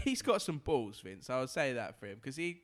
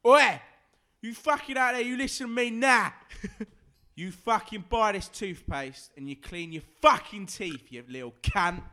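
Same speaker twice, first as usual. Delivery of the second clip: loud, higher barking pitch for toothpaste; lout toothpaste ad; 6 semitones higher, 9 dB louder than usual. Acted. Pub lout voicing a toothpaste advert, loud aggressive bark. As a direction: sell it like a thug ordering the viewers. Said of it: "He can still talk like that and sell it".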